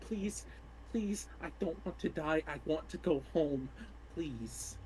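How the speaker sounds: tearful pleading. Acted. Tearful farewell to his mother.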